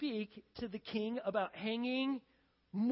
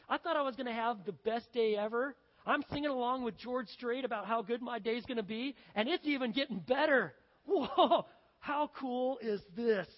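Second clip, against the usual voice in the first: loud, building to a laughing whoa; elated power trip; 3 semitones higher, 6 dB louder than usual. Acted. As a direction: crow over your amazing luck. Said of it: "amazing power trip".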